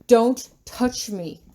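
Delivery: sharp angry snap; snapping. Acted. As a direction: bite the words off. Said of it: "I snap".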